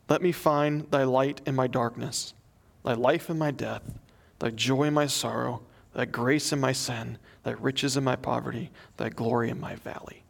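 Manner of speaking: hushed, falling devotional cadence; prayer read aloud. A narrator's reading.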